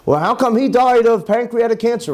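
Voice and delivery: puzzled questioning. Retold or imitated. People asking why someone died, puzzled. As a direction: wonder aloud, as if baffled. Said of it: "When we scratch our heads and say".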